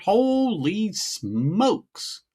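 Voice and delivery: slow, drawn-out holy smokes; stunned at the shelf find; amazed gasp. Retold or imitated. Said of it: "I went".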